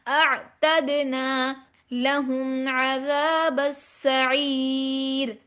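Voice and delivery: very slow tajweed chant; measured, sustained recitation; Quranic recitation. Shown as a demonstration. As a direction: recite with long held vowels, the last word stretched out.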